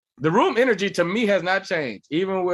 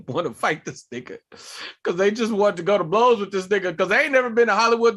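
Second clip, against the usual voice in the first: normal talking voice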